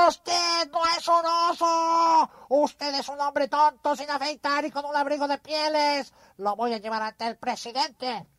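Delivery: muy agudo, jefe enfurecido. Acted. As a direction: reprende con furia. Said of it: "gritaba enfurecido". (vicepresidente enfurecido)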